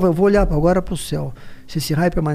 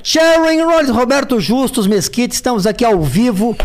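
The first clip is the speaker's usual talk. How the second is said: mock TV host; 4 semitones higher than usual. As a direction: open like a hammed-up TV presenter. Mock TV host intro on phone call.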